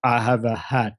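understated imitation of a friend's one-line character intro; deadpan player voice. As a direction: play the minimal player description with mock seriousness. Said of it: "Nathan's description of him".

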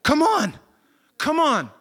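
loud, high call across a crowd. Acted. Acted Jesus calling out to blind men.

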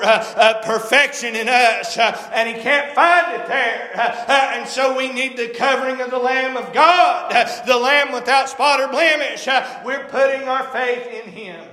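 impassioned preaching with punctuating "uh". Acted. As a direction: preach it in a driving, rhythmic cadence. Preaching in rising cadence.

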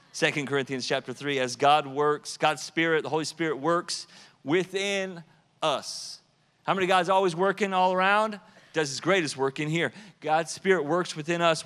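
fervent preacher's build; preaching. Real, not acted. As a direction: drive the scripture home to the congregation. Preaching at full force.

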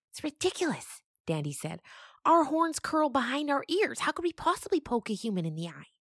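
high indignant goat voice. Acted. Dandy protesting about horns, high.

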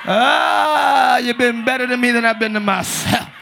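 long moaned "ah" into a sustained prayer line; hammed-up devout intoning. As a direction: pray showily as if deeply moved. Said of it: "You know you deep".

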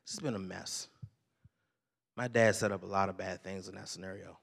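low, soft confession; subdued, emotional. Real, not acted. Pastor opens up about his half brother, quietly pained. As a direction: let it come out heavy and quiet.

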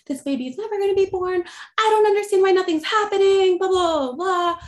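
high, loud frustrated rant; retold yelling. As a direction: yell it like a woman fed up in labor. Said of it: "I'm, like, yelling".

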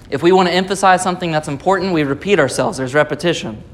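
brisk, deliberate word-for-word repeat; repeating for emphasis. Shown as a demonstration. Preacher repeats himself to show how repetition works, brisk emphatic echo. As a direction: run through it briskly, as a demonstrated repetition.

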